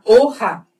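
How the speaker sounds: "O, ra" split in two, second syllable a rasped kha; throaty Spanish J. Shown as a demonstration. Teacher reads hoja, throaty J in "ra". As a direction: separate "O" then scrape "ra" in the throat. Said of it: "som de R bem forte na garganta".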